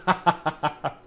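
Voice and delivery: talking while crunching food; chewing between words; crunching biscuits. Real, not acted. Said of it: "sorry about the crunching".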